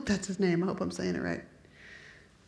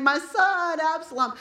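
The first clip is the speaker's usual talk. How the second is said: retold wailing; 7 semitones higher, 3 dB louder, slower than usual. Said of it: "he's crying".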